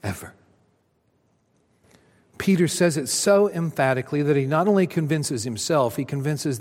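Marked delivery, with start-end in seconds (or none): 0.0-0.3 loud, higher stubborn vow; digging in. Acted. Peter doubling down to Jesus, stubborn insistence. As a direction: dig in your heels. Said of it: "doubles down and digs in his heels".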